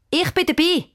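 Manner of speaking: high, eager exclamation; keen child jumping in; calling out. A narrator's reading. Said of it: "kommt aus dem Bett raus und ruft".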